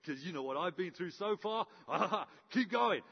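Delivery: laughing through the words; chuckling. Retold or imitated. Elijah chuckling at the prophets while they keep going. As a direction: chuckle as if you know you have already won. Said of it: "Elijah starting to chuckle in his belly".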